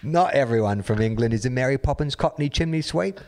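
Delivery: hammed-up mock Cockney English accent; put-on English accent. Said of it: "gotta do the proper voice".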